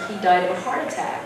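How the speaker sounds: very sad. Retold or imitated. Colleague telling of custodian's death, retold very sadly. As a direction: break sad news quietly, with understatement. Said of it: "very sadly".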